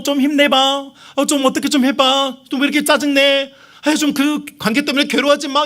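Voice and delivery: a hammed-up cutesy plea to cheer up; mock coaxing. 하나님이 나를 달래며 비위를 맞추는 흉내, 아양 떠는 목소리. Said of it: "재롱잔치하면서, 어, 아양 떨면서".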